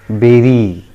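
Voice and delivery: "beri" as BEH-ree, falling; correct pronunciation. Shown as a demonstration. Teacher having learners repeat, "beri" as BEH-ree. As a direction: say "beri" with an eh vowel. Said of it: "the correct pronunciation".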